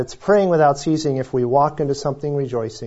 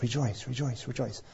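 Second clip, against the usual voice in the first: quiet mantra; 12 dB quieter than usual. Retold or imitated. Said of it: "So I'm like".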